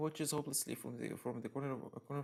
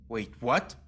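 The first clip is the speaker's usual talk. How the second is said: startled; 3 semitones lower, 10 dB louder than usual. Real, not acted. Startled by the game's text.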